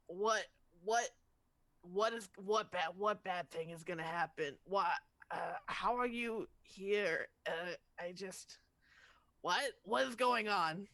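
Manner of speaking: half-awake mumble; just-woken groggy voice. Acted. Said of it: "very groggily is like".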